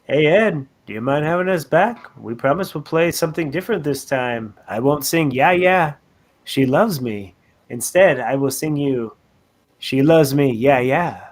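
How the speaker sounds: put-on low Beatle with a shaky-quality British accent; bad British accent. A Beatle asks Ed Sullivan to return, bad British accent. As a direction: parody a British Beatle, badly. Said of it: "that accent just keeps going downhill".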